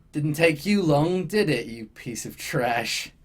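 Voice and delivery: slow, lightly smug taunting. Acted. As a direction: draw it out with a smug grin. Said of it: "just with the smuggest fucking shit-eating grin".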